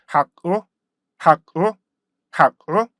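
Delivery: 학 cut short, then a separate 우; split into stop sounds. Shown as a demonstration. Teacher splits the diphthong for learners, segmented 학, 우. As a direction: break it apart, abrupt 학, pause, 우. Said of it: "스탑 사운드로 분리해 보면요".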